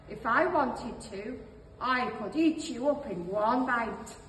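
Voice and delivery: a hint of a proud wolf grumbling; grumbling old wolf. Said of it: "He recovered his deep, grumbling voice".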